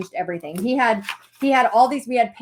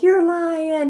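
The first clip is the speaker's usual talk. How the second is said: high, drawn-out retold disbelief; acted-out incredulous squeal; disbelieving; 8 semitones higher, 4 dB louder than usual. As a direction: blurt it as if the news can't be true. Disbelieving reply to husband's news.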